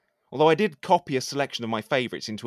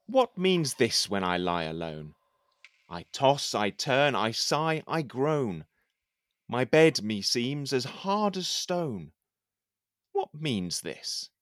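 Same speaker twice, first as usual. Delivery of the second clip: measured, declaiming poem reading; poem recitation; 2 semitones lower, slower than usual. Acted. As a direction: recite it like a courtly poet. Recites his poem aloud.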